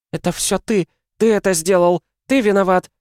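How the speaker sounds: high, loud sobbing blame; sobbing accusation. A narrator's reading. Mother sobbing at her husband, high and loud. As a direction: cry out the blame through tears. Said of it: "плачет навзрыд".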